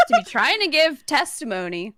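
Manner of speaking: stifled giggles. Real, not acted. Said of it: "I'm just trying not to laugh".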